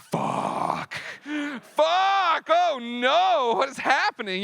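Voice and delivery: whispered curse bursting into a high, loud panicked shout; panicked swearing. Retold or imitated. Patient hearing he needs an MRI in an hour, panicked shout. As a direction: go from a hushed fuck to a yelled panic.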